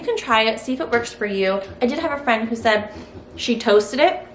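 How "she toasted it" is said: talking with a mouth full of food; words round a mouthful of bread. Real, not acted. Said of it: "I'm eating with my mouth full".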